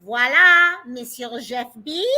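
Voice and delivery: put-on playful French accent on Voila and Monsieur. Greeting Jeff in chat with a jokey French accent. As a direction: greet him like a mock French host. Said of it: "I had to remember my French".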